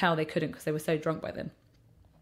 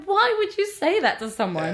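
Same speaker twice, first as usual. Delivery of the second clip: retold anger; 11 semitones higher, 5 dB louder than usual. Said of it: "I was so angry after Christmas".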